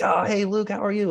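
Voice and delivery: friend's reply. Retold or imitated. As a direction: mimic the friend lighting up on the phone. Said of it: "He's like".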